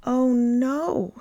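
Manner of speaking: small worried gasp of a reindeer; dismayed. A narrator's reading. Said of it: "thought Tiny Reindeer".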